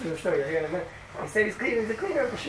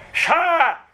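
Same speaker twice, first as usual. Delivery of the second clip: 1 retold shush; 9 semitones higher, 4 dB louder than usual. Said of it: "the other guy goes".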